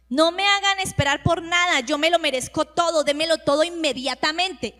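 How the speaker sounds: loud, impatient demand to be served now. Pretend. Preacher mimicking a proud impatient person, demanding. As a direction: push it like a spoiled person who wants everything immediately.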